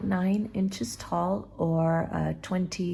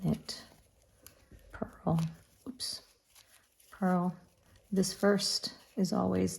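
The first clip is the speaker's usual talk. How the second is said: counting under breath; 6 dB quieter than usual. Real, not acted. Counting stitches while knitting.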